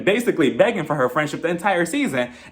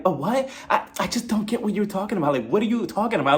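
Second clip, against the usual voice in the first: playing dumb; 3 semitones higher than usual. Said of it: "acts as if she has... migraine".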